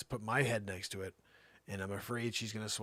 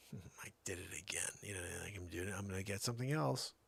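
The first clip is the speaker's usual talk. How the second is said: 1 dog inner voice; 2 semitones lower, 6 dB quieter, faster than usual. Retold or imitated. Dog's inner voice, fake embarrassment.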